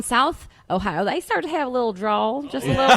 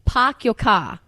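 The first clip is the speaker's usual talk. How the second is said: park your car in a New Zealand accent; park your car in a New Zealand accent with a hint of Australian; slower than usual. Shown as a demonstration. Host copying the band's New Zealand phrase. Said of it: "that was really good".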